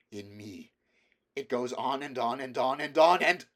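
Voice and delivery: put-on a boy tipping into panic; rising hysteria. A narrator's reading. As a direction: let it spiral out of control. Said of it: "the hysteria edging his voice".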